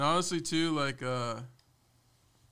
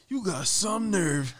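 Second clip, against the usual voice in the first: mock stern boss; 7 semitones higher, 4 dB louder, slower than usual. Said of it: "was like".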